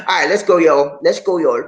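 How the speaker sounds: Charleston Geechee accent slipping out. Real, not acted. Host rallying viewers, real Geechee accent. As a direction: let a Charleston Geechee accent come through. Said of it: "did y'all hear that Geechee accent".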